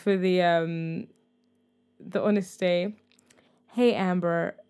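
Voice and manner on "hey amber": put-on American accent. Voicing a man's message to a woman, in an American accent. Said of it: "I don't know why I'm doing it in an American accent".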